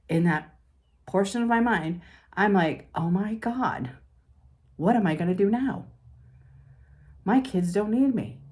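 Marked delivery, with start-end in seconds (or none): 3.0-8.4 higher-pitched retold worry; mock panic. Mother to herself as children leave home, retold panic. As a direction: voice a mildly distressed inner cry, pitched up. Voices her empty-nest panic.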